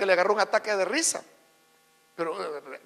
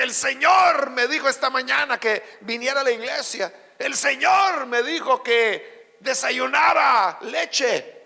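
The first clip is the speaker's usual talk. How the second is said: mocking imitation; 4 dB louder, slower than usual. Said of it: "Porque es gente que así habla".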